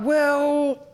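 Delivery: high, laughing concession. Retold or imitated. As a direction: crack up while agreeing. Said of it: "And I was like".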